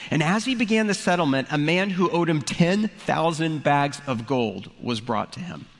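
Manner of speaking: a pastor reading the parable aloud to the congregation; scripture reading. Acted. Pastor reading Matthew to his church, in a scripture-reading voice. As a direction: read it like the Gospel text, measured and clear.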